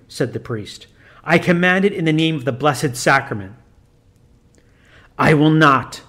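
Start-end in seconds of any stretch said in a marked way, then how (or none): 1.2-3.5 a lightly voiced priest commanding solemnly; stern priest. 5.2-6.0 loud growling demon refusal; growled refusal. Acted. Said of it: "growled the master of evil".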